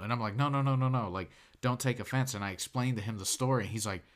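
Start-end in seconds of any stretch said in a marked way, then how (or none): 0.4-2.3 hasty reassurance. Retold or imitated. Reassuring offended waiter hastily.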